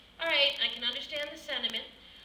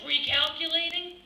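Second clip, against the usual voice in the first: annoyed GPS voice; 3 semitones higher than usual. Retold or imitated. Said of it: "by the third time, it's, like".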